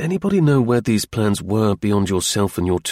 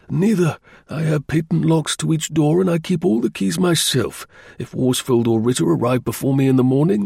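higher-pitched engineer voice; engineer client; 6 semitones higher than usual. Acted. Engineer explaining his office to the investigator, higher voice. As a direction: answer as the earnest client.

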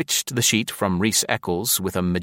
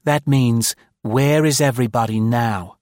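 higher, loud, resigned woman; 4 semitones higher, 4 dB louder than usual. A narrator's reading. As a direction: translate wearily. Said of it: "said Maud resignedly".

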